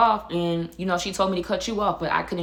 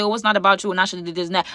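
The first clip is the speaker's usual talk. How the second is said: mocking viewers; 3 dB louder, faster than usual. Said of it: "y'all gonna say".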